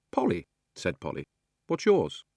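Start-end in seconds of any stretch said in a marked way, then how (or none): 0.1-0.5 put-on raised, higher girl's voice; bright schoolgirl pitch, pitched well up; young Polly. Polly tells the boy her name, in a higher girl's voice. 1.7-2.2 put-on higher, a touch louder girl's voice; perky question pitched up high; young Polly. Polly asking the new boy's name, voiced higher.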